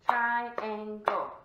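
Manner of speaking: TRI-AN-GLE in even, punched syllables; clapped out. Shown as a demonstration. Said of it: "I'm gonna clap it out".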